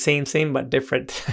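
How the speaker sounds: lightly attempted Thai accent; a half-hearted go at a Thai accent; weak imitation of a Thai accent; bad Thai accent. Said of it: "That was a bad, uh, Thailand, Thai accent".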